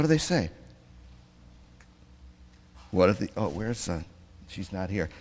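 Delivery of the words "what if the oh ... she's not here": ordinary delivery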